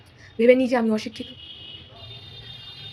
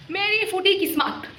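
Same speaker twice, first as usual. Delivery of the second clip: 1 mock lament; 5 semitones higher, slower than usual.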